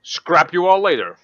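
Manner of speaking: talking through a mouthful of food; loud sign-off with a full mouth. Real, not acted. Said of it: "Ralph with a full mouth is gonna say".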